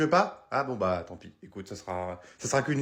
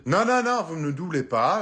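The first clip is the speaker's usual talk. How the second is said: firm refusal; 3 dB louder than usual. Acted. Angry customer refuses queue-jumper.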